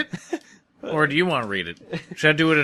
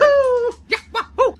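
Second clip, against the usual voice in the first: excited cheering; 5 dB louder, much slower than usual. Pretend. Players cheer sliding down.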